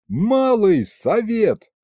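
loud, slow, high call of the council; yelled. A narrator's reading. Narrator bursts into the office yelling for the council. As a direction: bellow the summons. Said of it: "заорал я".

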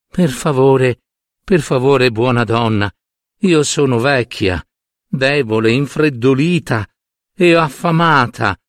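lightly voiced frail old woman, begging; a hint of a shivery, pleading crone; chilling old woman's voice. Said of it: "con una voce che faceva venire i brividi". (voce della vecchia che fa venire i brividi, appena accennata)

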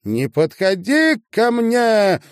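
high, loud hysterical cry; hysterical scream. Acted. Marina screaming at Sasha not to come near, hysterical. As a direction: scream it out in panic, voice cracking high. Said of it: "истерично закричала Марина".

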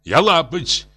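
very high, emotional outcry; exclaiming. A narrator's reading. Professor insults himself before the others, exclaiming high. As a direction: cry out, pitch climbing. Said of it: "воскликнул профессор".

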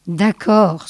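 mildly resigned agreement; resigned sigh. Acted. Scoblar gives in to the sage, mildly resigned. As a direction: give in with understated resignation. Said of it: "soupira l'autre".

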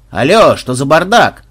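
loud, slow stern challenge; the boss cutting into a brawl; stern demand. Acted. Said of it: "сурово спросил". (суровый окрик хозяина)

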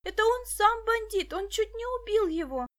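high, loud insistence; girl shouting at the policeman, high and insistent; outraged protest. A narrator's reading. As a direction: point and insist he is the bandit.

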